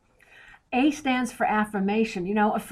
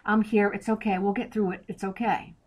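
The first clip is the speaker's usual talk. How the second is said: reassuring. Retold or imitated. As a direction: soothe someone mid-meltdown, gently. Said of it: "I need you to affirm and say".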